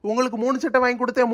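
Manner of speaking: fast, sing-song mock of the wife's line; mocking his wife. Husband mocking wife's complaint, fast and teasing. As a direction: parrot her words back, teasing. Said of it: "கணக்கு சொல்லிக்கிட்டு அலையுதியோ".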